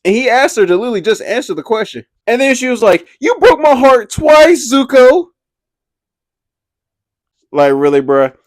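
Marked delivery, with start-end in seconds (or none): 3.2-5.3 overdramatic May. Retold or imitated. Mocking May's dramatic line.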